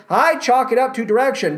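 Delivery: ordinary talk, nothing marked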